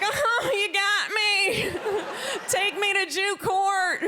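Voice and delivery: high, slow, laughing defeat; mock surrender. Answering the questioners with sarcastic surrender. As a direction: give up theatrically, laughing. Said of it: "I'm like".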